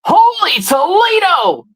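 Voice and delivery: high, slow announcer call; game announcer. Retold or imitated. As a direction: belt it like a video game announcer after a crash. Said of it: "sometimes he'll go".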